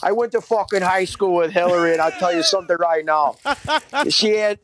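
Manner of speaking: whispered, a hint of a gruff guy swearing; mock angry whisper. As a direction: hiss it like a pretend witness. Parodies classmate's tweet.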